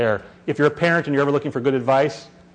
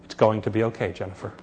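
put-on soft, lower, unhurried soothing of a crying baby; calm and composed; 4 semitones lower, 5 dB quieter than usual. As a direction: quietly reassure the child in a steady hush. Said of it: "in this voice, completely calm and composed".

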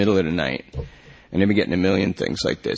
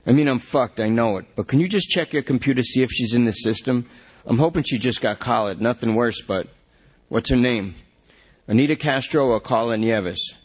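desperate junkie; 3 semitones higher than usual. Acted. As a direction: beg the cop to check the system. Lester begs for computer check.

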